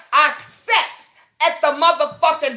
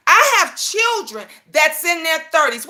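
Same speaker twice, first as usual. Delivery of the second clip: shouting. Real, not acted. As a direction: raise your voice on the point. Repeats point, shouting.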